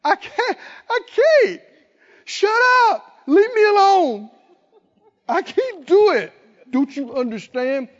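high, rising panicky wail; mock the hysterical refusal; imitated panic building to a shriek; anguished whining. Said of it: "Have you ever heard the angst of".

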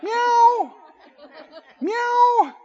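high, sweet begging meow; cat meow. Pretend. Preacher voicing the stray cat asking again, high meow. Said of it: "Tell me about the next day".

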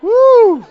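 high, loud whooping woo. Real, not acted. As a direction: whoop with delight. Preacher exclaiming.

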